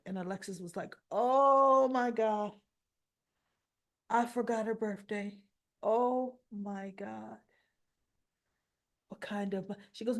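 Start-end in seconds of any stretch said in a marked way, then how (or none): 1.1-7.4 slow, drawn-out oh my God; dismayed realization. Retold or imitated. Mother realizing she forgot her daughter's birthday, slow dismay. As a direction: let the shock of forgetting sink in.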